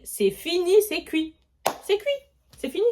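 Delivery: mock despairing wail; panicked despair. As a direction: wail that all is lost.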